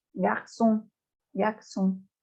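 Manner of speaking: "garçon" with the ç said as S; cedilla as S. Shown as a demonstration. Teacher shows the cedilla, "garçon" with an S sound. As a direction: say "garçon" as gar-SON, French R before the S. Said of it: "se la pronuncia como una S".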